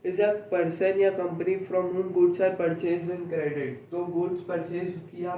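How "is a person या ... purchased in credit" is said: slow, word-by-word dictation; teacher reading a definition aloud for notes, very slowly. Shown as a demonstration. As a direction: dictate each word slowly so students can write. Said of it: "dictating the definition".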